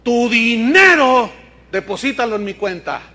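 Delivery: a sly joke version of Pedro cashing in; playful mock-apostle greed. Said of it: "Entonces Pedro le dijo".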